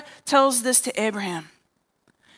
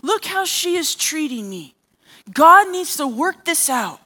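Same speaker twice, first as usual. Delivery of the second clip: higher-pitched, indignant complaint; imitated outrage, pitched up; flaming mad; 4 semitones higher than usual. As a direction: act out an angry wife demanding action. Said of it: "and she's flaming mad".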